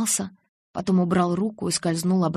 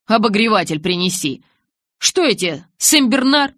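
louder, indignant grumble; grumbling retort; 4 semitones higher, 7 dB louder than usual. A narrator's reading. Jacob grumbles at Edward from outside the tent. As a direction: grouse back at Edward. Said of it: "проворчал он".

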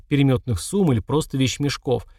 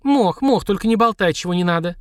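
flustered and raised; 6 semitones higher than usual. Acted. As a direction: hurry to hush him. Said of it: "опять заволновалась Марина".

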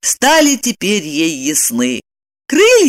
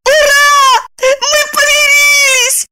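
very high, louder joyful squeal; delighted squeal; 4 dB louder, slower than usual. A narrator's reading. Lipochka squealing as she hugs Roman. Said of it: "С восторженным визгом".

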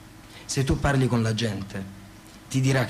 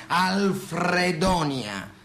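drawn out slowly, savouring each syllable; slow, proud proclamation; grand naming; 2 semitones higher, much slower than usual. Acted. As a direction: unveil the name like a monument. Grandly naming his own city.

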